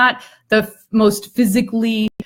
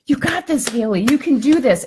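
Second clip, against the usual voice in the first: cheering; 5 semitones higher than usual. Retold or imitated. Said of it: "they're cheering her on and they're saying".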